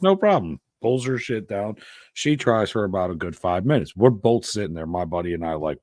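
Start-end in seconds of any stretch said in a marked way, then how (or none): 0.0-0.6 high, loud, breezy reply; mock her high-pitched eagerness; eager girl impression. Voicing the girl's eager reply.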